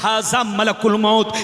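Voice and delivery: rhythmic Arabic recitation from the pulpit; preaching. Acted. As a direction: recite scripture firmly, phrase by phrase. (अरबी हदीस पढ़ने का तक़रीरी अंदाज़)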